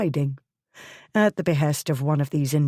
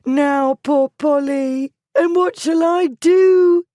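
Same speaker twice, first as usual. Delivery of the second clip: rising, louder desperate wail; tearful cry; 11 semitones higher, 7 dB louder than usual. A narrator's reading. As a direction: wail it on the edge of tears. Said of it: "She burst into tears".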